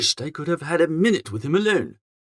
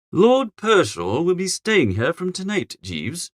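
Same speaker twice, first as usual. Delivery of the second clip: cold; slower than usual. Acted. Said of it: "I said, coldly".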